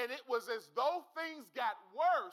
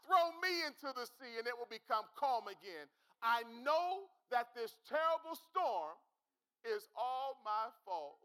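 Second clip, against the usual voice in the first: Jonah's tearful plea. Retold or imitated. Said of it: "He said".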